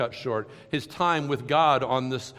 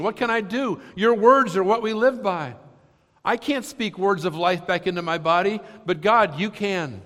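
loud, raised pleading cry; crying out to God; 9 semitones higher, 8 dB louder than usual. Retold or imitated. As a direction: call out to God in desperation. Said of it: "he cries out to God".

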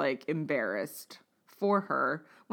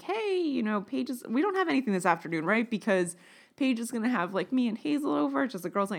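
put-on light girly voice; 5 semitones higher than usual.

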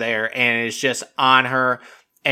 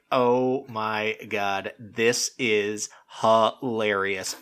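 very slow, hushed amazement; stunned disbelief; 3 semitones lower, 6 dB quieter, much slower than usual. Retold or imitated. Viewer reacting to a ridiculous fight, stunned disbelief. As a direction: draw out each word, soft and awed. Retold stunned amusement at quarrel.

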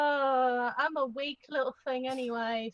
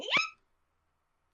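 very high squeaky mock yelp; a silly high-pitched fake yip. Player imitates her character's fake pain yip, very high. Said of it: "it's basically going".

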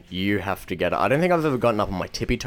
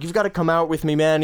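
high, insistent mock New York guy; exaggerated pushy New York coworker; New Yorker impression; 7 semitones higher than usual. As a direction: urge like a hammed-up New Yorker. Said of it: "this new guy from New York".

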